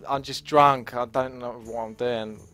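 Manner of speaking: imitating an apologetic drunk, slowing at the end. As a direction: own up to it like a sorry drunk. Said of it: "did seem kind of genuinely apologetic".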